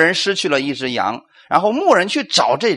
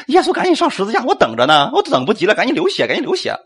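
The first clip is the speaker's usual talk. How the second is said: higher, hammed-up impatient sheep with a laugh; mock impatient demand; 5 semitones higher, faster than usual. Pastor mocking believers who think they saved themselves, hammed-up impatience. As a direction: rush Jesus like a pushy sheep, half laughing. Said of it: "不是你主动说".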